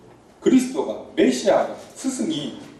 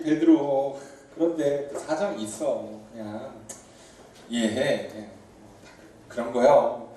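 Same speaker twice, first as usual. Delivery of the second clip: pat him on the back with your voice, tender and easy; gentle soothing; 5 semitones lower than usual. Retold or imitated. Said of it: "부드럽게 좋게 좋게 넘어가 주질 않고".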